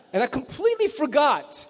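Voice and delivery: laughing admission. Real, not acted.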